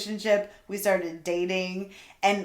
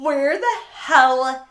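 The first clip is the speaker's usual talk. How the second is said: retold incredulity; 4 semitones higher, 5 dB louder, slower than usual. Recalling the gator morning, drawn-out comic disbelief. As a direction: stretch out the baffled question, then drop. Retold bafflement at the airboat scene.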